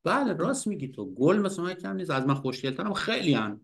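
wife's retort. Retold or imitated. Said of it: "زنش گفت".

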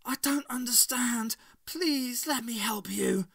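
high-pitched bewildered plea; acted anguished servant voice; distressed pleading. A narrator's reading. Loyal servant begs mistress.

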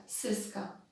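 Syska with s in place of sz; deliberately faulty s for sz in Syska; mispronounced sibilants. Shown as a demonstration. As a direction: say Syska with plain hissed s sounds instead of sz. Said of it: "Czy powiedziałam dobrze?".

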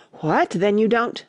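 lightly voiced tiny creature, drawn out; little voice. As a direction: begin slowly in a hint of a small voice. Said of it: "the little voice began".

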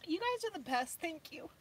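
real tearful thanks, tailing off softly; choked up. Real, not acted. Thanking viewers for their generosity, choked up. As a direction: voice giving way to happy tears. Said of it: "I might cry".

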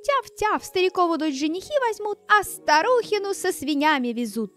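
high, quick yapping dog; little dog voice. Acted. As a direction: yap it out like a small dog. Dog barks prophecy.

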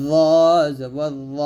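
heavy, rounded "ল" in "জবর ল"; heavy letter. Shown as a demonstration. Teacher showing learners the letter, "ল" said heavy. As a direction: say "ল" thick and full-mouthed. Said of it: "মোটা করে".

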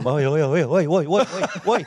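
insistent, repeated hey-calls; calling out. Real, not acted. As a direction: call out to grab someone's attention. Calls out to interrupt someone distracted.

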